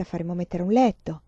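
a nun pushing her point hard; insistent nun. Acted. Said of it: "La suora insisteva".

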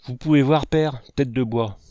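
scolding father mimicking his son; mocking echo. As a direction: throw his own words back at him, exasperated. Father throws son's words back.

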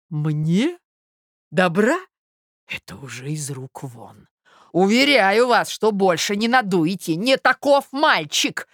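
incredulous indignant suitor. Acted. Suitor refuses to be fooled, indignant. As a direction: echo in disbelief, then refuse hotly.

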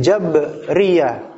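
Jabriyah slowly, with no vowel between b and r: Jab-ri-yah; original Arabic pronunciation. Shown as a demonstration. Teacher to class, Jabriyah said slowly the Arabic way. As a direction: say Jabriyah the Arabic way, b joined straight to r.

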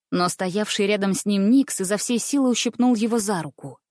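plain reading voice

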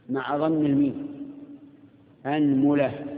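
أنملة with a on the hamza and u on the mim; pronunciation demo. Shown as a demonstration. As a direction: say أنملة as anmula. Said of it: "افتح الهمزة". (أنملة بفتح الهمزة وضم الميم)

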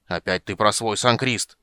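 slow, growling exasperation. Acted. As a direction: growl it out fed up. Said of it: "зарычал Флинт".

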